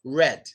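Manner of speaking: "red" started with protruded lips; low-pitched "red", tongue touching nothing; lip-rounded R. Shown as a demonstration. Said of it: "Your lips help you more".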